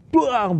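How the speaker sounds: spoken crash noise, starting high and falling; imitated crash. Preacher retelling the motorbike clipping his mirror, imitated crash. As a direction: voice the bang of the mirror hit.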